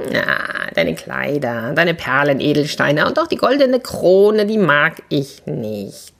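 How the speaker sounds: a hint of a pleading frog. Frog states his wish.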